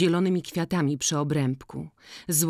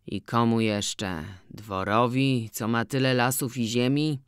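put-on musing old farmer; 3 semitones lower than usual. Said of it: "rozmyślał".

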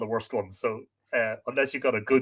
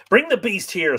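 raised, loud master's order; higher and louder command; 8 semitones higher, 8 dB louder than usual. Acted. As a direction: order the servant briskly. Master orders his servant.

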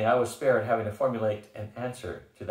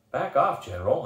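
loud, higher snarl; 4 semitones higher, 4 dB louder than usual. Acted. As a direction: snarl it back at him. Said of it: "I snarled".

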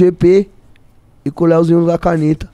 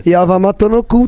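"E a Vama tô no cu" said as the reversed phrase; backwards speech. Shown as a demonstration. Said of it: "ao contrário".

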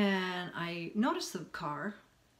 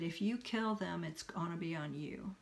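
softer, dropping away at the end; understated small voice in the head; little inner voice; 5 dB quieter than usual. Retold or imitated. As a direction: quietly voice a warning conscience. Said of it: "then this little voice".

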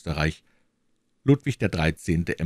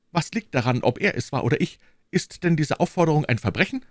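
lightly voiced king, sharp retort; brushing her off; the king dismisses her accusation; irritated king; 10 semitones higher, faster than usual.

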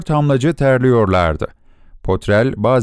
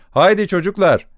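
raised, high call to the workers; rallying call; 8 semitones higher than usual. Acted. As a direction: urge the crew on to heave. Foreman urging workers to pull. (işçilere yüksek sesle seslenme)

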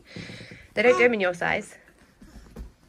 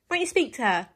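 excited cooing; 7 semitones higher, 5 dB louder than usual. Real, not acted. Cooing over baby and dog.

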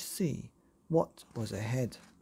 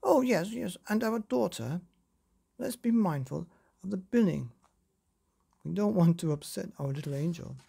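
flustered father; 4 semitones higher than usual. Acted. Father hastily corrects himself.

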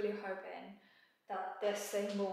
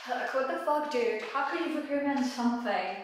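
louder, exasperated venting with heavy stress; real frustration; 2 semitones higher, 4 dB louder than usual. Real, not acted. Venting at the tiler about a useless tool, frustrated and loud. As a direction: let the anger at a useless tool spill out. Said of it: "I'm so fucking frustrated".

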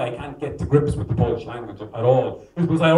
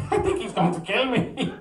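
mock frightened woman; 6 semitones higher than usual. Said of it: "Polish woman frightened, voiced".

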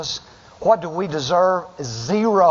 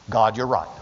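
humble prayer; 6 semitones lower than usual. Shown as a demonstration. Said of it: "Start like this".

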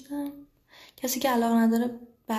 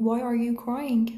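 slow teaching read; much slower than usual. Shown as a demonstration.

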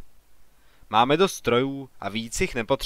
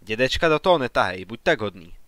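growing irritation. Acted. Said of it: "odsekl ... s narůstajícím podrážděním".

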